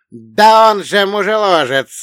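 high, very loud drawn-out yell; bellowing dwarf. Acted. Dwarf denouncing the attacker, high bellow. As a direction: yell the accusation high and long. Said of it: "заорал карлик".

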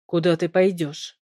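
low, calm, eerie husband's voice. A narrator's reading. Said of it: "спросил он спокойно и жутко".

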